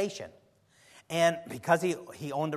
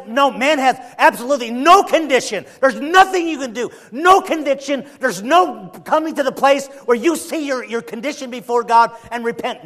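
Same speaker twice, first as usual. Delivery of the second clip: mocking paraphrase; 8 semitones higher, 11 dB louder than usual. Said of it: "It says".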